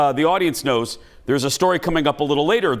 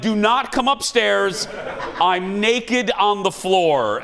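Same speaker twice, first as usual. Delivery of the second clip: higher and slow, half laughing; stuck on the floor, calling a friend off, hammed-up alarm; mock panicked call; 5 semitones higher, slower than usual.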